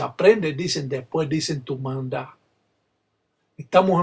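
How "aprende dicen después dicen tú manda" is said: rhythmic call and answer prayer chant; ritual invocation. Acted. Palero opens the ritual, chanting invocation. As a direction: intone it like a palero's rezo.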